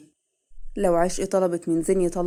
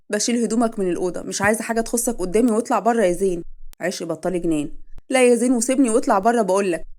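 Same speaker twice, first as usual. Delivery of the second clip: angry shouting; 2 semitones higher, 5 dB louder than usual. Acted. Wife ordering husband out of the room, furious shout. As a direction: raise it to a furious yell at him.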